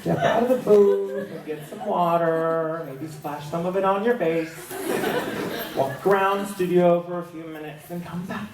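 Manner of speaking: imitated careful, placating tone; coaxing colleague. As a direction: coax gently, as if talking someone down. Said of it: "and she's like".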